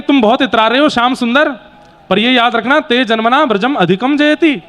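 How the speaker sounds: mock reproach, as if putting someone in their place; retold taunting. Gopis taunting Thakur ji in a verse, mildly taunting. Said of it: "गोपियां ठाकुर जी को तंज कसती हैं".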